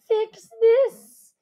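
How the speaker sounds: loud, high sharp demand; angry demand. Acted. Creatures' silent demand.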